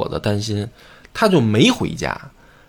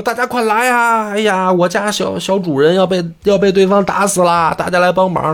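高声喊街坊来帮忙; 急着招呼四邻的喊叫; 当街喊人; 6 semitones higher than usual. Retold or imitated. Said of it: "就在这个法官的大门前就喊上了". (理发师在门前高声呼救)

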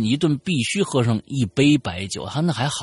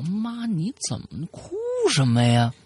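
drawn-out, higher-pitched question to a crying mother; worried questioning; 7 semitones higher, slower than usual. Acted. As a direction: ask slowly, pleading for an answer. Child asking crying mother. (拖长音担心地追问)

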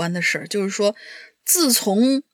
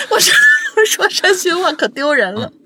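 half-crying laughing whine, higher and louder; 6 semitones higher, 5 dB louder than usual. Real, not acted. Embarrassed confession while laughing. (又哭又笑地嚷)

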